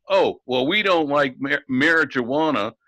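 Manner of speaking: mock Southern accent, barely put on. Mocking Sessions on air, light Southern accent. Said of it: "that Southern accent".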